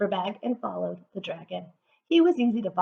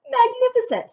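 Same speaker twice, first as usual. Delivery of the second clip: excited praise; 8 dB louder than usual. A narrator's reading. Elizabeth praising dragon.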